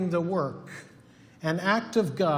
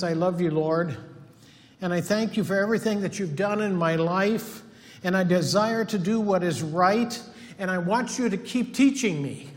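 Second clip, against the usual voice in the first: earnest prayer voice, spoken up to the Lord; sample prayer. Shown as a demonstration. Preacher showing the congregation how to pray, earnestly. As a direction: pray it aloud as an example for the church. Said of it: "we need to be praying something like this".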